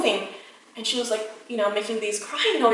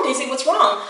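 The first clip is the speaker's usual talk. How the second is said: falling, anxious retold plea; worried repeating; 3 semitones higher, 4 dB louder than usual. Owner to her sick dog, helpless falling plea. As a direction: repeat it helplessly, tune dropping at the end. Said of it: "but I kept repeating".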